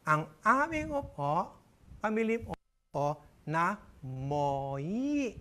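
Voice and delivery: slow, nasal-mimicking repeat; lightly voiced customer; speech-impaired customer, slow. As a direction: drag each word as if hard to say. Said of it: "ay ngongo din".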